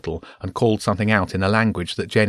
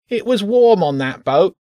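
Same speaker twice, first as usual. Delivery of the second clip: high, whiny rat voice; whining rat; 11 semitones higher, 5 dB louder than usual. Acted. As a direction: whine it like a hungry little rat. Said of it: "the rat whined".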